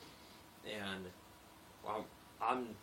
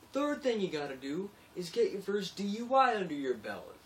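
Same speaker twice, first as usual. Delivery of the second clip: higher, louder macho voice; tough iron worker; 10 semitones higher, 8 dB louder than usual. Retold or imitated. Iron worker listing his crude steps, loud and macho. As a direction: crow it like a crude punchline. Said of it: "he goes".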